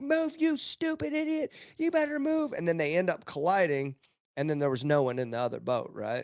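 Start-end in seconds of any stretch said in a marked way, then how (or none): 0.0-2.5 acted-out very high, shrill, angry screaming yell. Telling a proverb about a man in a boat, retelling a screaming yell. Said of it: "he's screaming and yelling at this boat".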